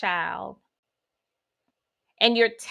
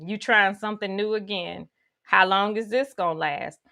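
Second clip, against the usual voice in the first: sassy self-talk; 3 semitones lower than usual. Acted. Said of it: "you would probably say something like".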